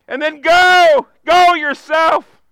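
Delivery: slow and loud, each word pressed; slow emphatic call. Acted. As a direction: urge them to go, deliberately. Preacher urging the congregation.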